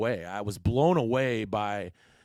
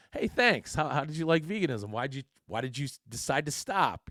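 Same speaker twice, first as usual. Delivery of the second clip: much higher, lightly voiced friendly girl; imagined friendly girl; 5 semitones higher than usual. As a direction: pretend she answers nicely and brightly. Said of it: "you would think that this girl would turn around and say".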